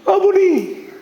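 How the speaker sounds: very high startled exclamation; hammed-up amazed cry; acted astonishment. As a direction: blurt out the wrong title in shock. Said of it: "너무너무 놀란 거예요".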